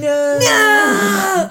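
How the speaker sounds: a laughing high yell of No; laughing shout. Retold or imitated. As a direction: shout No as the sand hits. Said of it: "and I was like".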